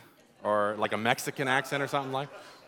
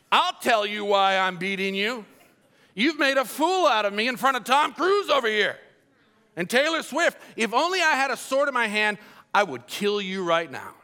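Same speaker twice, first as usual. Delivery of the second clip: raised-pitch ranting in acted outrage; mock raging anger; 4 semitones higher than usual. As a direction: rant like a humiliated man, half in jest. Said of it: "he's raging with anger".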